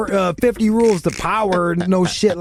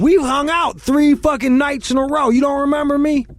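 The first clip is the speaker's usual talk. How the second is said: indignant rant; 8 semitones higher, 3 dB louder than usual. Real, not acted.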